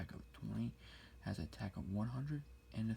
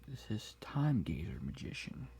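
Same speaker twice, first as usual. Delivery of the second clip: whisper in left ear. Acted.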